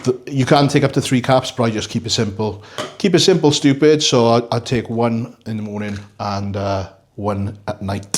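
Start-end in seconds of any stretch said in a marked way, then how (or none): 3.0-4.0 higher, louder punchy catchphrase; emphatic slogan. Acted. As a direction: bark out the motto.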